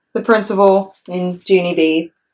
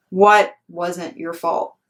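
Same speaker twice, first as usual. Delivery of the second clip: slow, measured principal; slow principal question; slower than usual. Acted. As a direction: ask it slowly and patiently, like the principal. Principal asks slowly.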